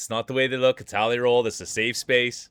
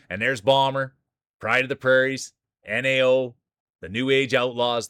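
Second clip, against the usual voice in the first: sports announcer intro. Acted. Streamer introducing the marble racers to chat, announcer hype. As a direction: roll out each racer's title like a ring announcer.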